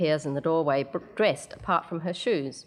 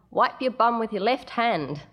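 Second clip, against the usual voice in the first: yelled tease; 5 semitones higher than usual. Acted. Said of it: "Brian yells after her".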